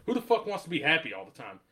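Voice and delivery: imitating a matter-of-fact rhetorical question. Quoting the rapper's interview answer, matter-of-fact. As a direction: toss it out as plain fact. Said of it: "he says it so matter of fact".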